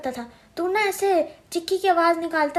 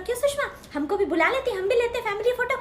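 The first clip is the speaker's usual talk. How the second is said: taunting; 8 semitones higher than usual. Retold or imitated. Aunt taunts Sushma.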